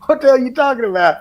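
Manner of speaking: loud, high, rapid-fire protest; mock astonishment. Son caught out by his dad about the job, loudly incredulous. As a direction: play up shocked innocence as a retold outburst. Son feigns ignorance when dad confronts him.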